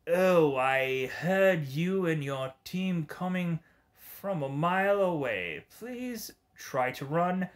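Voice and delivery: lightly voiced gleeful villain taunting the heroes; Joker-style villain. Gamer voicing Bullseye like the Joker, lightly playful menace. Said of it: "bullseye almost has to sound like Mark Hamill's The Joker".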